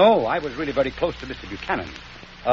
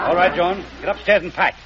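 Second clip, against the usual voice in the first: loud, firm command; stern husband's order; angry order; 4 semitones higher, 6 dB louder than usual. Acted. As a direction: cut the scene short in anger. Husband catches boss flirting.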